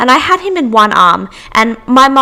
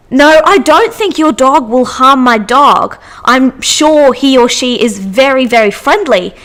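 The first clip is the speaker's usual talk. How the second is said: affronted dog owner; 3 semitones higher, 3 dB louder than usual. Retold or imitated.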